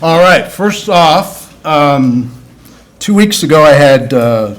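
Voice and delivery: talking funny after dental work. Real, not acted. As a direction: mouth sore from dental work. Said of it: "I'm talking funny and I apologize".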